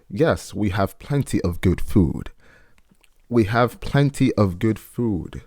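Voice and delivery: put-on slow, drawn-out old Southern accent; imitated old Southern slave accent, unhurried; put-on house slave accent. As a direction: go for the accent, stretching the words out slowly. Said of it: "sorry for the accent, I just decided to go for it".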